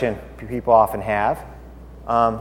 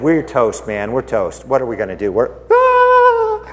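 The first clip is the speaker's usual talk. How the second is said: casual dread breaking into a shriek; mock panic; 3 semitones lower than usual. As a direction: mumble in dread, then squeal. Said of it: "Pretty much, he said".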